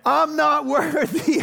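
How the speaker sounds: slow, drawn-out Wayne's World bow; hammed-up slow mock worship. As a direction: grovel it like Wayne and Garth. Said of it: "We need a little Wayne's World".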